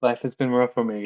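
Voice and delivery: mock-tragic lament through giggles; laughing while joking that life is hard. Real, not acted. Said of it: "let me laugh a little bit".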